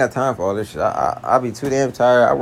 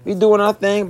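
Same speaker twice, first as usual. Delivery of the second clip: relaxed; 8 semitones higher, slower than usual. Retold or imitated. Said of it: "and I'm all like".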